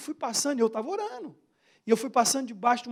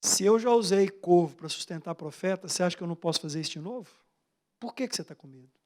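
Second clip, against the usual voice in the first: God speaking; 5 semitones lower, 3 dB quieter than usual. Retold or imitated. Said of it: "Deus falou comigo".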